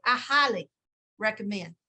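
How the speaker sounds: a light teasing echo of her earnest tone; imitating Suzanne. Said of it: "That's how she would say it too".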